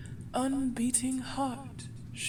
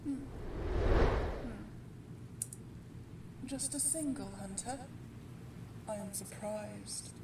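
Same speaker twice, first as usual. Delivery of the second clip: soft, unhurried villain's taunt; quiet menace; 7 dB quieter than usual. Acted. Vampire greeting a hunter sent to kill it, quietly menacing. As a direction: toy with the intruder, keeping it hushed.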